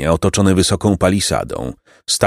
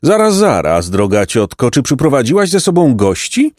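very polite; 4 semitones higher than usual. Acted. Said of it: "bardzo uprzejmy głos".

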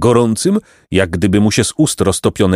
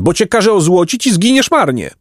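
high-pitched threat; threatening outcry; 11 semitones higher than usual. A narrator's reading. Great lord threatening the boy with gilding, threatening outcry. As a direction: threaten on a sharply raised pitch. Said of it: "zakrzyknął wielki pan".

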